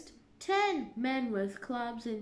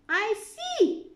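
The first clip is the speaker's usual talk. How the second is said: high, loud, knowing; ominous queen; 11 semitones higher, 7 dB louder than usual. A narrator's reading. Queen realizes the trick, ominous. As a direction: say it with menace. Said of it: "she said".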